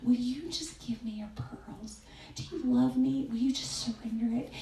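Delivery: God's gentle voice. Retold or imitated. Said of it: "and He's saying".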